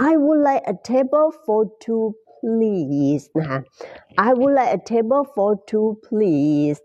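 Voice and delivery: I would like a table for two please, word by word; very slow demo. Shown as a demonstration. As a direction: drill it slowly and politely. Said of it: "แบบนี้นะ". (พูดช้ามากๆ อย่างสุภาพ)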